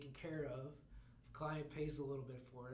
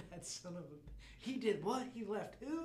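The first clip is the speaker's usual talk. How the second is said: outraged disbelief; 7 semitones higher, 5 dB louder than usual. Acted. Mock outrage at the doctor.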